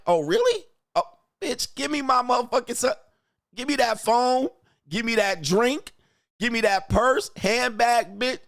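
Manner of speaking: high-pitched hammed-up outrage; mock indignant. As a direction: play an outraged sugar daddy demanding everything back. Acts boat owner demanding things back.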